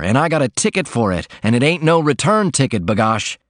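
a laundryman longing for the open road, gleeful; joyful cry. Acted. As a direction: burst out like a man let loose. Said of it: "he cried".

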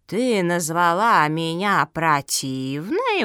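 slow, drawn-out checking; pointed clarifying question. Acted. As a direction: ask slowly, stretching the insult. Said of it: "уточнила Зоя".

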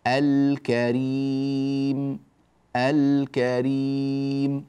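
الكريم with a held ل and long ي; slow, sustained model of الكريم; clear lam demo. Shown as a demonstration. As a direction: sound the ل in الكريم, then draw out the ending. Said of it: "هكذا اللامات ظاهرة هنا".

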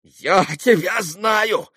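high, drawn-out, silly repeating; foolish insistence. A narrator's reading. Townsman stuck on his accusation, foolishly insistent. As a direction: harp on it like a fool. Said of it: "заладил, как дурак, мещанин".

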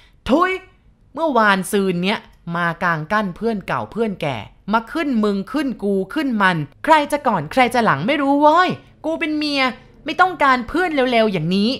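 enraged shout at the widow, very high and loud; furious yell. Acted. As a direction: explode at her, slowing down at the end. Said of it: "โกรธจัดชี้หน้าแล้วก็ร้อง".

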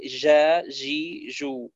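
جا جي جو slowly, jim softened toward zh; wrong jim, Levantine. Shown as a demonstration. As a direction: let the jim of جا جي جو slide like zh. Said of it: "ولا تقول".

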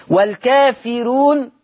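والكافرون recited slowly with a light, thin ra; thin ra in Warsh. Shown as a demonstration. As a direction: lift والكافرون high and slow with a softened ra. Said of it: "حكم الراء عند ورش".

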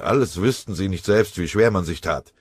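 mounting fury, ending loud and high; seethe, then burst out; angry. Acted. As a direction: sergeant fuming at the staff behind the lines, angry. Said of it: "dachte Scharf wütend".

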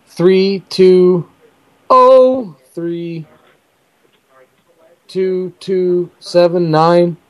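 slow mechanical number reading; robot voice. Acted. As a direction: spell out each digit like a robot. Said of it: "I read that in kind of a robot voice".

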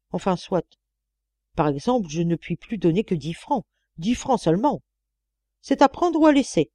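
haughty bargaining, emphatic word endings; miserly employer, lightly voiced; grudging old mistress. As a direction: concede grudgingly, then lay down terms.

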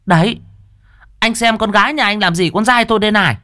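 high, fast outraged complaint; angry village mother showing her son's bruises; indignant mother. Acted. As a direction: shove the bruises in his face. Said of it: "nghiến răng ken két".

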